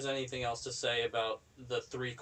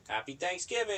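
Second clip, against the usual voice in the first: high, bright holiday cheer; cheerful greeting; 8 semitones higher than usual. Retold or imitated. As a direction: sing it out like a greeting. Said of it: "I say Thanksgiving in some context".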